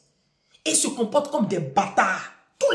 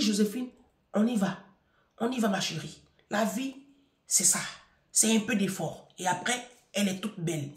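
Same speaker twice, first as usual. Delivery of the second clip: gentle encouragement; 5 dB quieter than usual. Retold or imitated. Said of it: "j'ai dit".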